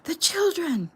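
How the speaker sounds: a rising, frantic shriek; desperate scream. A narrator's reading. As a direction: scream it as if your heart is tearing. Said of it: "Jeffy screamed".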